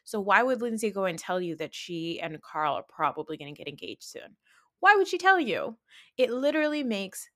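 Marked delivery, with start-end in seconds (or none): 4.8-7.3 high, loud exasperated question. Real, not acted. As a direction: demand it in disbelief. Exasperated rant.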